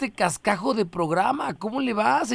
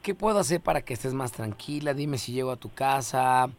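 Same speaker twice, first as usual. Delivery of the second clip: mock seductive; 5 semitones lower than usual. Host sweet-talks caller. (voz seductora de broma, más suave)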